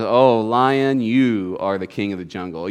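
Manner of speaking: low, deferential bear. Acted. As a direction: humour the lion in a low voice. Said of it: "And the bear says".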